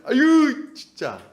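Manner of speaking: acted weary exasperation; exasperated sigh. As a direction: groan in mock exasperation, then let it fall. Acting exasperated, tired parent.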